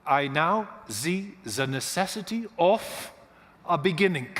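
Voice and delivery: put-on slow, heavy German accent. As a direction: play Einstein with a thick German accent, slowly. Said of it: "announced in his heavy German accent".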